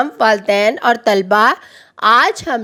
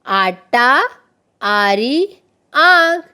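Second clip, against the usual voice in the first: choral lead; much slower than usual. Shown as a demonstration. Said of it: "सब मिल के मेरे साथ बोले".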